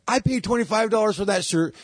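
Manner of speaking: high, squeaky indignant protest; indignant guy. Retold or imitated. Guy protesting he paid for the shirt, high squeaky whine.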